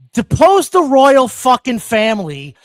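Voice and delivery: mock furious outburst; angry shout. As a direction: bark it at the royals. Mock rant at British people.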